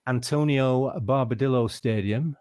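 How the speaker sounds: slow, careful try at a Spanish accent. Shown as a demonstration. Podcast host announcing the Spanish venue, in a Spanish accent. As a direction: rolls the name out in his best Spanish accent. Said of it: "That's my, that's my best Spanish accent".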